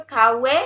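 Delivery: "kawe" ending on e; Kelantan dialect pronunciation. Shown as a demonstration. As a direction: end "kawe" on an open e, no n. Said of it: "dialek Kelantan juga".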